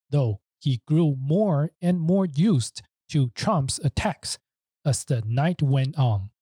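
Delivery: measured English passage reading; reading aloud. Shown as a demonstration. The speaker reads the original passage for listeners on request, measured read-aloud. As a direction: read the text out carefully, phrase by phrase. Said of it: "请他帮我们念一下".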